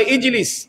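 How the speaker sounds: "ইজলিস" with a soft j, said quietly; regional Arabic word. Shown as a demonstration. Preacher contrasting Arabic dialects for the congregation. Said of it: "আরবের কোন অঞ্চলের মানুষ বলে".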